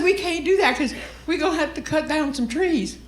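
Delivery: high whiny heckler imitation; mock crying. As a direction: plead in a put-on weepy voice. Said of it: "Is she crying?".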